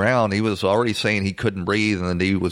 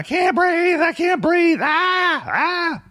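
much higher, louder panicked yell; retold screaming; 3 dB louder, much slower than usual. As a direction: shout it like a man in panic. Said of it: "he's screaming".

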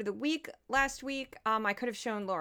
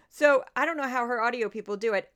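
usual speaking voice

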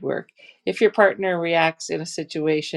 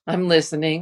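sarcastic; 4 dB louder than usual. Shown as a demonstration. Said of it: "the way we would use that phrase".

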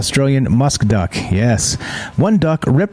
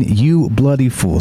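imitating the duck. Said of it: "Ripper the Duck saying".

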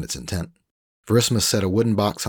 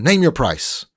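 higher, louder smug Frenchman; Frenchman Rolf; 9 semitones higher, 6 dB louder, slower than usual. Acted. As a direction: sell it like a slick French trader. Rolf bargaining.

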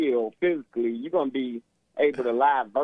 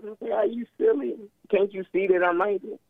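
higher-pitched mock exasperation; incredulous retort; 6 semitones higher than usual. Caller acting out his answer to the woman, incredulous. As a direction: throw it back as an obvious question, pitched up.

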